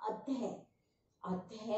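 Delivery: अतः ending on an h sound; visarga as h. Shown as a demonstration. Teacher gives an example of visarga, अतः ending in h. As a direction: let अतः finish in a soft h. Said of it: "ह का उच्चारण करते हैं".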